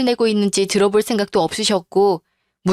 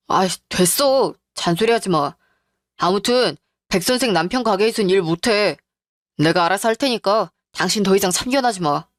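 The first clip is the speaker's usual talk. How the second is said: irritated husband. Acted. Husband rejecting his wife's meddling, irritated.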